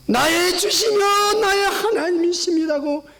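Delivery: preacher voicing Thomas's cry; fervent confession. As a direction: proclaim it with awe.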